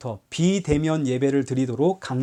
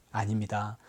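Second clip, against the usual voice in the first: normal talking voice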